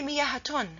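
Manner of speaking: مياهتون said "miyahatun", t inserted after the h; wrong added ta sound. Shown as a demonstration. Teacher warns you cannot say it, مياهتون with an added t. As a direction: add a false "tun" to مياهتون. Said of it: "You cannot add ta sound".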